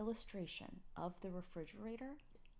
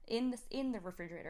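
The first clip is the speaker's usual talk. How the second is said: louder, higher puzzled exclamation; mock surprise; 4 semitones higher, 5 dB louder than usual. Mother retelling her reply, mock baffled. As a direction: act baffled by the child.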